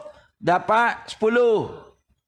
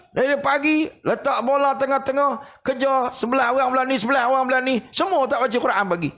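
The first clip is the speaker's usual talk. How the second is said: higher retold telling-off; mock scolding; 6 semitones higher than usual. Sheikh reproaches students over football morning, higher mock scolding. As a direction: lay out their morning as a reproach. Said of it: "Pak Syekh marah".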